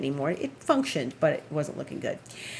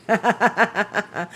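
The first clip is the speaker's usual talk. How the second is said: short mischievous cackle; wicked laugh; 2 semitones higher, 3 dB louder than usual. Real, not acted. Holding Ronald's money hostage, wicked laugh. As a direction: laugh like a little villain. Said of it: "that's a wicked laugh".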